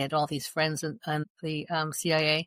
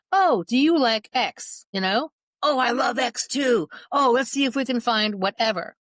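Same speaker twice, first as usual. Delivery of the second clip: imitating the groomer's sweet talk; 6 semitones higher, 4 dB louder than usual. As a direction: put on a gushing buddy act to win the boy over. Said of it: "he was trying to say".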